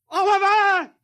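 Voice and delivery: high, loud, long call across the place. Acted. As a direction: shout his name into the dark. Calling for his missing assistant.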